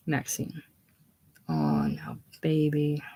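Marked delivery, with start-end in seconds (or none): 1.5-3.0 soothing. Acted. Maxine soothing the broken Shannon.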